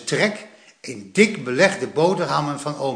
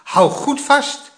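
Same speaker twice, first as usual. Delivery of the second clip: urgent grandpa; 11 semitones higher, 4 dB louder, slower than usual. A narrator's reading. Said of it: "zei opa".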